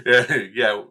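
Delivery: usual speaking voice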